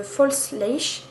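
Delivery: French-accented English, drawn out; self-mocked English accent. Real, not acted. Vlogger reading out an English mascara name, French-accented English. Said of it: "Avec mon superbe accent".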